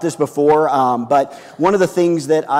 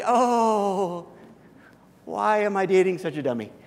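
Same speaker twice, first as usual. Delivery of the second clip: a sigh-laugh, mock despair; lightly voiced girlfriend, amused; laughing exasperation; 3 semitones higher than usual. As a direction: girlfriend laughing at her clueless boyfriend.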